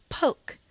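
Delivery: "Poke" with the opening "p" punched hard; emphasized p. Shown as a demonstration. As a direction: hit the "p" of "Poke" with a strong puff. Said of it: "Emphasize the p sound".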